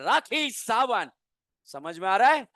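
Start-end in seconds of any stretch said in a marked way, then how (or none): 0.0-1.1 slow, drawn-out answer; slow emphatic mnemonic; slow punchline. Shown as a demonstration. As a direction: land the mnemonic slowly. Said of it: "optical के हर दर्द की दवा कौन है?".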